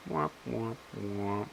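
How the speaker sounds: soft, drawn-out womp-womp sound; mock sad trombone. Host finds nobody has commented, mock sad trombone. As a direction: imitate a deflated trombone, softly.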